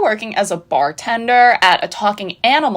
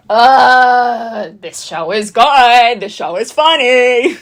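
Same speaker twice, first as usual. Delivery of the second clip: gushing praise; 3 semitones higher, 5 dB louder, slower than usual. Real, not acted. Mock-wailing praise of the show.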